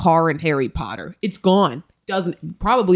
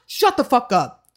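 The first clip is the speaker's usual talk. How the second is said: put-on a raised, fed-up shout at kids; snapping at kids; 6 semitones higher than usual. Telling screaming roof kids to shut up, fed up. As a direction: bark it again at them. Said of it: "and I just snapped".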